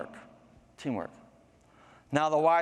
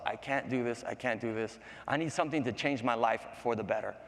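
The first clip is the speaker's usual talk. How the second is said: low, subdued self-talk; depressed man; 3 semitones lower, 4 dB quieter than usual. Acted. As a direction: mumble dejectedly to yourself, softly. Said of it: "He was always depressed".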